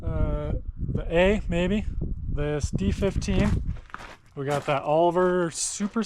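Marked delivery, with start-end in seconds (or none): 0.1-3.5 breathless after walking around; out of breath. Real, not acted. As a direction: talk while catching your breath. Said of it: "I'm out of breath".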